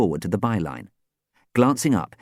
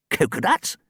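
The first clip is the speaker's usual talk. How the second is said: higher, baffled echo; puzzled question; 9 semitones higher than usual. A narrator's reading. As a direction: repeat it in confusion. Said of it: "he repeated questioningly".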